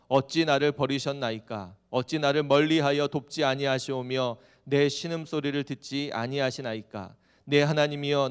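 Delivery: loud, solemn psalm recitation; scripture reading. Acted. Preacher reading David's lament to the congregation, loud scripture recitation. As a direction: declaim the verse, drawing out the final words.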